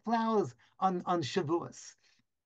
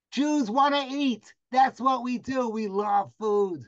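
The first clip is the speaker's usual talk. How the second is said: playful punchline; 4 semitones higher, 4 dB louder, slower than usual. Real, not acted. Comic punchline about food.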